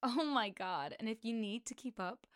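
struggling attempt at an American accent. Shown as a demonstration. Podcast host retrying the plug in an American accent. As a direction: have a go at sounding American. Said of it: "like, an American accent".

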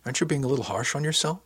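light, kindly reproach; gentle chiding. Acted. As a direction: gently talk them down. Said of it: "she asked gently".

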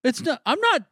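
sharp, high, defensive yell. Real, not acted. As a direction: snap back high in protest. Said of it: "Why are you yelling at Jack?".

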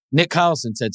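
normal talking voice

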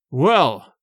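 a lightly voiced undead old man, hollow. A narrator's reading. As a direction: sound empty and eerie. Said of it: "he said in a hollow voice".

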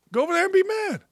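taunting Go over there and be mad in a mock high voice. Shown as a demonstration. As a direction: mimic a whiny taunt up high.

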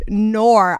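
"nor" as mock-Aussie no; Australian no. Shown as a demonstration. Puzzling out the vowel, Australian-style "nor". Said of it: "it's like a nor".

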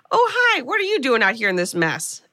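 bright, high surprised hi; surprised greeting. Retold or imitated. Steve greeting a familiar face in the dark, pleasantly surprised. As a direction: greet a friend out of the blue, pitch jumping.

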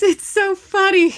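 imitating laughing mom. Daughter mimicking mom waking up laughing, giddy. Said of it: "looks at us and she laughs".

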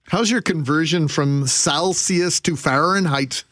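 put-on slow, drawn-out Minnesota accent; hammed-up upper Midwest Minnesota accent. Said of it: "In my worst Minnesota accent".

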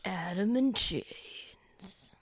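slow breathy whisper. Shown as a demonstration. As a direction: whisper it slowly, hushed. Repeating the song title in a whisper.

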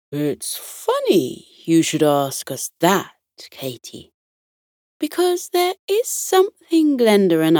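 lightly voiced deep, calming bear; gentle, unhurried captain, lightly acted; Captain Fluffy Ears. Teddy bear captain proposing an adventure, deep and calming. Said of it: "In a deep, calming voice".

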